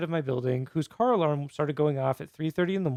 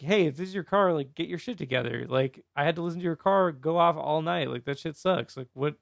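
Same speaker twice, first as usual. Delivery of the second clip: toned-down, casual complaint; less aggressive retelling. Retold or imitated. Neighbor retelling the milder post about the car alarm, less aggressive. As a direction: grumble it evenly, without much heat. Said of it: "I didn't say it so aggressively".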